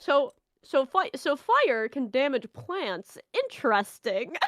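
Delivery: slow, dry mock realization; deadpan sarcasm about the obvious; slow sarcastic fake surprise. Real, not acted.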